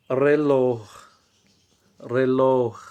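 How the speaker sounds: reloj said loud with a firm fall; loud model word. Shown as a demonstration. Teacher shows the word reloj to the class, loud. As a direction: present reloj firmly. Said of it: "¿Podéis ver?".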